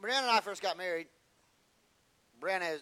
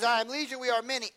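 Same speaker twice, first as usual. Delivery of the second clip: demon voice; 6 semitones higher, 7 dB louder than usual. Acted. Demon answers Jesus again.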